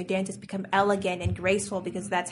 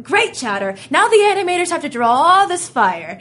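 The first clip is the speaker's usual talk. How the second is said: exasperated yell; 8 semitones higher, 9 dB louder than usual. Retold or imitated. Caretaker yelling about kitchen fire.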